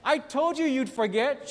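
a hint of a gleeful told-you-so; husband's gloat. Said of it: "he says".

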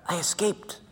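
soft conspiratorial whisper with a laugh. Retold or imitated. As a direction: whisper the confession. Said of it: "what are you whispering for".

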